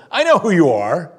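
loud, high mock scream of the possessed; imitated scream. Demon-possessed guy to Jesus, imitated scream. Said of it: "he screams to him".

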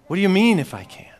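fast, indignant comeback; emotional retort. Retold or imitated. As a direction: throw the question straight back, acted. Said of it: "don't read this without emotion".

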